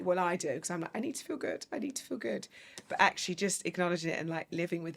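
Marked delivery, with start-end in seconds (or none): 0.9-2.5 high, soft self-quote; mock anxious insistence. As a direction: repeat it like a small, urgent plea. Acts out her own anxious insistence.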